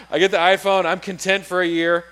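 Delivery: loud, gleeful declaration; triumphant shout of the purchase; excited. Real, not acted. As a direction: crow it out, thrilled with himself.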